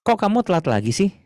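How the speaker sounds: high-pitched, exasperated chiding question; demonstrated everyday reprimand; scolding reproach. Shown as a demonstration. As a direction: tell off a repeat latecomer, pitched high. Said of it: "kalau ngomong negur".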